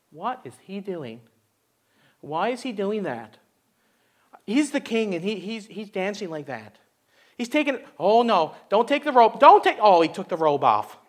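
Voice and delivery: a hint of a scandalized wife, soft and low; lightly voiced disapproving wife; Michal scolding. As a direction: mutter like a shocked wife watching from the window. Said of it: "That's a pretty good impersonation right there".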